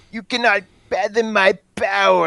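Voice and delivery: high slow nerdy voice. Gamer imitating a character voice option from an old roleplaying game, little nerd guy voice. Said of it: "it sounded like some little nerd guy".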